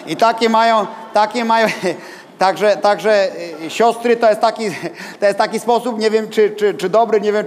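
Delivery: chuckling between halting phrases; real amusement. Real, not acted. Preacher amused by the suit-prayer custom he just told, laughing. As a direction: talk through laughter, pitch lifted. Amused by his own anecdote.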